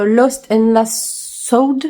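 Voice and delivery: English title in a halting, heavily French English accent; clumsy English accent. Shown as a demonstration. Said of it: "Désolée pour mon accent anglais". (accent anglais maladroit, titre lu lentement)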